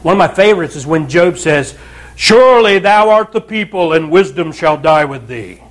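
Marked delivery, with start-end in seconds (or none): 2.1-5.6 mock-solemn sarcastic quote. Preacher quoting Job rebuking his friends, sarcastic. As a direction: pronounce it with dry, mock reverence. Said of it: "That's sarcasm".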